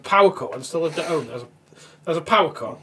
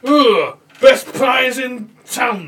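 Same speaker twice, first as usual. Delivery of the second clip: slow, higher put-on northern voice; lightly voiced northern cop; savouring voice of a pie-loving cop; mock northern cop; 8 semitones higher, 7 dB louder, much slower than usual. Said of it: "and he's like".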